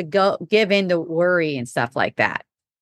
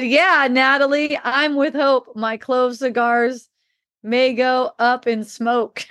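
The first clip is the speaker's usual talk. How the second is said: a hint of Gail, a bit higher and slower; Gail's reply; 4 semitones higher, slower than usual. Gail answering Natalie about clove cigars, lightly mimicked. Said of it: "Gail said".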